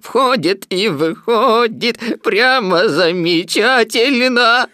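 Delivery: high, loud, stretched-out rapture; elated shout. A narrator's reading. Donkey delights in his birthday presents, elated shout. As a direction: cry out in sheer delight. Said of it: "закричал Иа-Иа".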